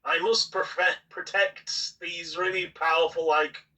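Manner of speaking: mock a self-appointed protector's solemn vow; mocking imitation. Podcaster mimicking a commentator taking a stand, mocking.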